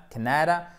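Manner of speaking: "Canada" stressed on "Can", short A; first-syllable stress. Shown as a demonstration. Teacher repeating for students, "Canada" with first-syllable stress. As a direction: punch the opening of "Canada", rest light. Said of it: "accent tonique sur la première syllabe".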